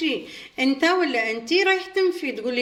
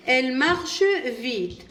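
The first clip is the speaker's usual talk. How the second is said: very slow, each French word laid out clearly; slow model reading; much slower than usual. Shown as a demonstration. Teacher reads the example sentence to pupils, slowly. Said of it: "إذن لدينا مثال".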